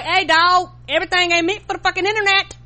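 high, loud, fast exasperated call-out; exasperated shout. Retold or imitated. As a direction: yell it at a careless friend. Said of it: "I'm like".

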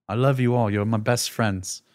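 lightly put-on droid accent, slowing at the end; C-3PO accent. Droid saying goodbye to best friends, lightly imitated C-3PO accent. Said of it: "This is the accent that C three P O has".

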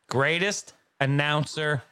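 slow, drawn-out, with weight on greatest; slow emphatic declaration. Acted. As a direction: lean hard into each word. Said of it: "I'm doing the Ric Flair, baby".

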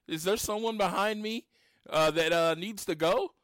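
high, fast mock indignant retort; exasperated retort. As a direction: throw it back at him, irritated and quick. Retold confronting rushing cashier.

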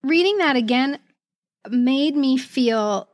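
slow, drawn-out wistfulness; wistful. Real, not acted. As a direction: savour each word, moved. Moved by rereading letter.

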